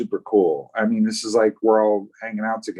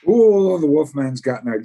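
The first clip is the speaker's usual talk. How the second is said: rough attempt at a Scottish accent, opening high and loud; bastardized Scottish accent; 6 semitones higher, 5 dB louder than usual. Answering a viewer's jab about the accent, mock Scottish accent. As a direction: put on a bad, playful Scottish accent. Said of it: "Yes, it was a Scottish accent".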